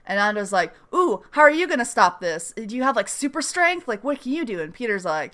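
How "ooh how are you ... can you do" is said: high mock-incredulous questioning; mocking doubt. Ando doubting Peter's powers, mocking high voice. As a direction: tease him about his powers.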